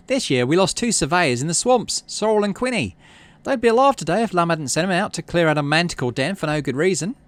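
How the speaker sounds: name the dead to shame him; bitter accusation. Acted. Utopia accuses governor before crowd.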